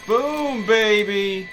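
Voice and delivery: loud, high triumphant yell; all-out hype scream; victory shout. Real, not acted. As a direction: roar it out like you just won. Victory yell after finally winning.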